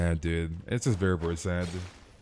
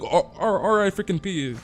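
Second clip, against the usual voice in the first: higher-pitched mock condolence; mock mourning fan; 7 semitones higher than usual. Streamer mimicking fans after the guy's death, mock mourning. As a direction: imitate a fan's tribute, pitched up.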